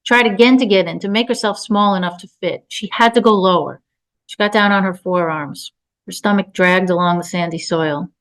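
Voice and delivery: measured literary reading voice; story narration. A narrator's reading. Author reading her tense story aloud, narration. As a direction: read the story evenly.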